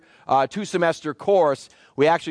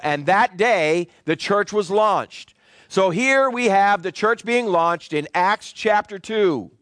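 emphatic preaching; 3 semitones higher than usual. Real, not acted. Preacher explaining Abraham's bosom to the congregation, emphatic preaching. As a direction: preach it firmly, phrase by phrase.

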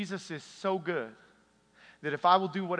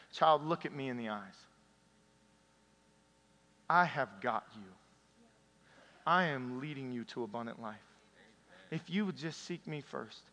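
tender Jesus. Retold or imitated. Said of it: "Jesus himself showed up".

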